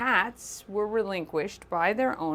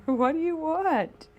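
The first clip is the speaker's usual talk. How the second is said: higher sing-song question to a cat; pet talk voice; 9 semitones higher than usual. Real, not acted. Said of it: "my, uh, pet talk voice".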